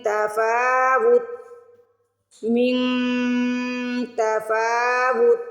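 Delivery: تفاوت with the fa held long, very slow; slow Quranic recitation. Shown as a demonstration. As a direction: stretch the fa in تفاوت. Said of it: "واو تا پیش وت".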